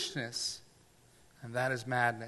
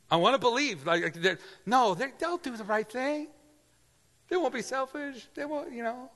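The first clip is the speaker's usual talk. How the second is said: earnest rising plea; 9 semitones higher than usual. Real, not acted. Preacher confessing hope in people.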